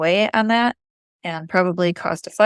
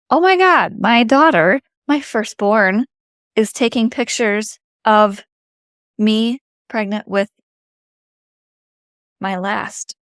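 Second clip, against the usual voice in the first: amazed; 2 semitones higher than usual. Retold or imitated. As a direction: gasp it out in wonder. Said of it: "I had this moment of".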